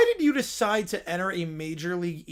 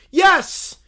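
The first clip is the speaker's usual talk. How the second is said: higher, louder, slow dim bear shout; 8 semitones higher, 8 dB louder than usual. Acted. Little Brown Bear shouting about romance, slow and loud. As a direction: bellow it like a lovesick bear.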